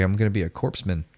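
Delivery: "corpsman" with the P and S sounded; spelled-out pronunciation. Retold or imitated. Gullible recruit bragging at the bar, "corpsman" said as spelled. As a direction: say "corpsman" as written, CORPS-man. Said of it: "you spell corpsman, C O R P S".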